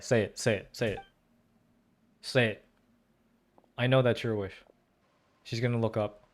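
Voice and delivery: ordinary delivery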